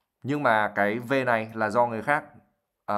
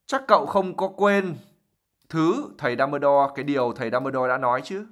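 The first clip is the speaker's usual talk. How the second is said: sharp; 2 semitones higher than usual. Acted. Mrs Weasley's sharp follow-up.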